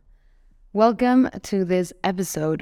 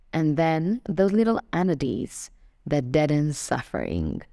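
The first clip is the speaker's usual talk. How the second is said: poem reading. Acted. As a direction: read the verse out deliberately, phrase by phrase. Reads a Dickinson poem aloud.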